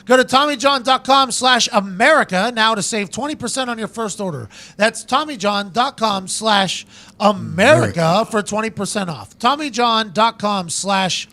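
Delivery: punchy, exaggerated sponsor pitch; announcer-style podcast promo; ad read. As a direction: sell it with deliberate emphasis. Host reads sponsor ad.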